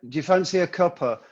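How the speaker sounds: quick question, "cuppa" run into one word; "cuppa" with the "of tea" dropped; casual British phrasing. Shown as a demonstration. Repeating the tea phrase for the American host, casual "cuppa". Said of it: "You don't even say the T".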